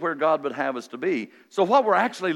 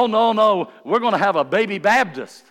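louder, higher excited protest; excited disciple; 6 semitones higher, 7 dB louder than usual. Acted. Disciple disputing what the newborn church will be, excited. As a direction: jump in like an eager proud daddy. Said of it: "But they were excited".

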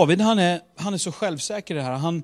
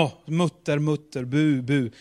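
mock grumbling. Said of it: "Och så sa han".

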